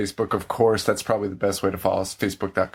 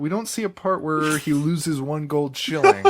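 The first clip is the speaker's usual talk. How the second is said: mock studio exec; 4 semitones higher than usual. Voicing studio executives' notes.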